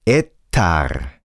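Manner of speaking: Ettar, Ratte spoken backwards; backwards speech. Shown as a demonstration. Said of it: "die Wörter werden rückwärts gesprochen". (Ettar rückwärts gesprochen)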